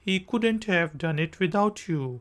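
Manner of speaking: couldn't have, quick contraction; shorter form. Shown as a demonstration. Teacher demoing the shorter form. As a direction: squeeze could not to couldn't. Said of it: "shorter form".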